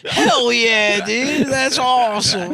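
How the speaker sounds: high, laughing bro voice; imitating a stoked bro. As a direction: gush like a hyped-up surfer dude.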